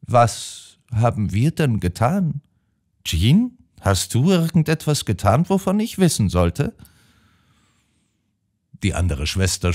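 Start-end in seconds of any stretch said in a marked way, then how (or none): 0.0-6.8 put-on high, fretful old lady's voice; an elderly sister suddenly worried; high, flustered old woman pleading; anxious old sister. A narrator's reading.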